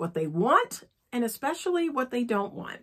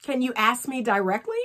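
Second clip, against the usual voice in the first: sample phrase; 4 semitones higher, faster than usual. Shown as a demonstration. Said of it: "phrases to use with man".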